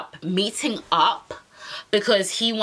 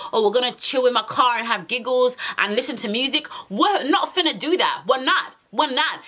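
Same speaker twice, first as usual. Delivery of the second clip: higher, insistent mock telling-off; indignant refusal, retold; 3 semitones higher than usual. Telling this guy she won't drive him, indignant refusal. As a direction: shut him down, re-enacting the refusal.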